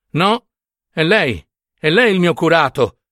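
high-pitched, insistent plea; pleading. A narrator's reading. Nunziata begs the curate to help her, pleading. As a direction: beg him not to turn you away. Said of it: "supplicò Nunziata".

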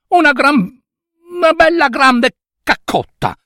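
put-on high, sweet girl's plea; a girl begging a favour, high and sweet; pleading little girl. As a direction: ask nicely in a high girlish voice. Girl asks the donkey.

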